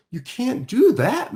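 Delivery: high, loud burst of protest; eager objection. Acted. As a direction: jump in to correct him. Child corrects counselor.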